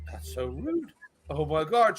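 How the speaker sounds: softly gasped mock horror; horrified grandma. Grandma reacting to rude waitress, imitated hushed horror. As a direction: quietly play the shocked granny. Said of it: "the grandmother's just horrified".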